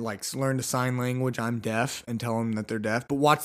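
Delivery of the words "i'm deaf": softer, mumbled fake claim; quiet pretend claim. Shopper faking deafness to a salesman, quiet. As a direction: say it quietly, playing innocent. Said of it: "Be like".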